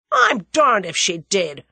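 loud, slow shout. Acted. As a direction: yell it back in his cousin's defence. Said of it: "shouted Julius".

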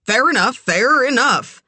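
high, hurried surrender; alarmed, placating repetition; nervous. A narrator's reading. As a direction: give in anxiously, pitch up. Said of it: "he said nervously".

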